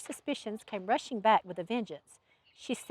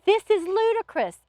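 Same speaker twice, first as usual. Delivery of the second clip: loud, high exasperated bark; sharp outburst of indignation; 10 semitones higher, 5 dB louder than usual. A narrator's reading. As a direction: bark it out in disbelief. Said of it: "Alex barked".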